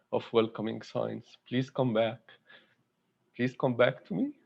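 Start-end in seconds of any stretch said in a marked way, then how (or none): 1.5-4.3 pleading while choking up; halting, moved, voice catching at the end; a tender plea close to tears; emotional. Real, not acted. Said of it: "I don't know why I'm emotional today".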